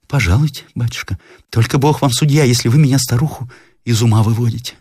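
the landlady begging not to be fooled; lightly voiced worried old woman; fretful old woman.

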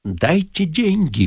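slow, strained demand; slow venomous stage whisper; hateful whisper. A narrator's reading. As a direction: force it out with hatred. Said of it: "прошептал он с ненавистью".

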